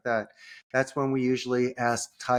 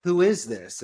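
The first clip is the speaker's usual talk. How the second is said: assistant asking; slower than usual. Retold or imitated. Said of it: "And then she will say".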